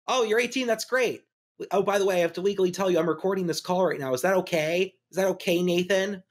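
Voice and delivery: hammed-up creepy producer, rushing the legal bit; mocking a producer recording an actor's birthday call; imitating Dan Schneider. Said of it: "he's like".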